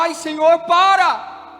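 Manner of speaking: loud, crying, pleading shout. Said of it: "nós começamos a gritar".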